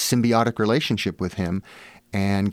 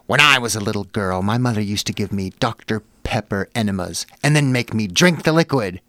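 mock intense confession with emphatic swoops; lightly crazed confider; 4 dB louder than usual. Woman leans in close to confide in author, mock crazed intensity. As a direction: imitate an overwrought stranger, building louder at the end. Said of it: "she just had this crazed look".

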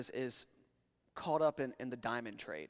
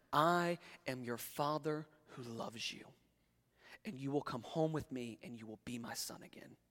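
tender father's plea; 4 dB quieter than usual. Retold or imitated. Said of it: "he finishes with this line as he looks at his son".

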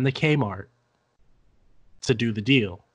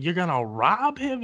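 higher-pitched disbelief; incredulous retold question; 6 semitones higher than usual. Retelling their reaction to a robbery plan, incredulous. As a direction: retell it as a taken-aback question.

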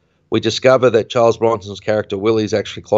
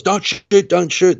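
retold yell; 10 semitones higher, slower than usual. McQueen calling to the guards to distract them, high mock yell.

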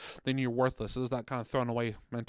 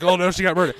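louder, higher, a hammed-up shocked announcement; mock grim telling; 5 semitones higher, 11 dB louder, faster than usual. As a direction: parody how bleak the story sounded. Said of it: "'cause that sounded terrible".

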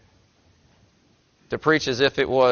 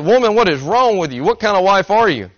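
higher and louder, hammed-up scolding; mock angry rant; 7 semitones higher, 4 dB louder than usual. Husband snapping at his wife in the joke, hammed-up angry rant. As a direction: huff at the wife in a put-on temper. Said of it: "didn't really appreciate the tone".

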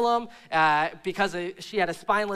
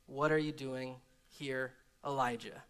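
low whisper voice; 9 semitones lower, 11 dB quieter than usual. Acted. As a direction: ask gently like a low whisper. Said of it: "the sound of a low whisper".

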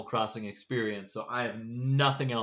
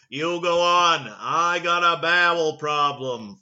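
a hint of a presidential voice, louder and slowed down; measured, louder and a little slow, as the president would say it; JFK; 3 semitones higher, 6 dB louder, slower than usual. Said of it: "Actually, that's not how he would sound".

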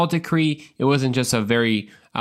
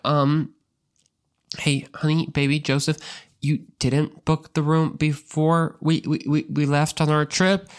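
accusing Mary; 3 semitones higher than usual. Retold or imitated. Mary asking Joseph why he didn't book the room, sweetly accusing. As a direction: needle him gently about the booking. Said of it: "They're like".

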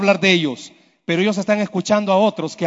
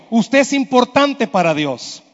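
say it like you mean it. Shown as a demonstration. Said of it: "Pero dígaselo".

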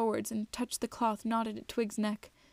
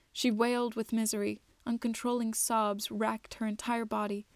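measured storybook narrator; unhurried audiobook-style telling; story narration. A narrator's reading. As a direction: read it out evenly, phrase by phrase. Reads the story aloud.

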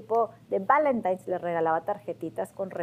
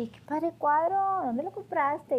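high, impressed friendly voice; 7 semitones higher than usual. Retold or imitated. Friends visiting admire the painting, high and impressed. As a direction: gush over the painting.

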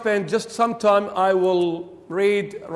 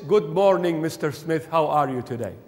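polite, measured formal greeting; 3 semitones lower than usual. Acted. Comparing Hebrew to formal speech, formal. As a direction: greet Mister Smith properly, trailing lower. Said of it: "Hebrew is".

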